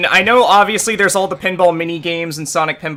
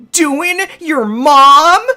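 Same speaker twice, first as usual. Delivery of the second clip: slow high laughing quip; 10 semitones higher, 6 dB louder, much slower than usual. Real, not acted. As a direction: laugh through the joke. Joking over game dialogue.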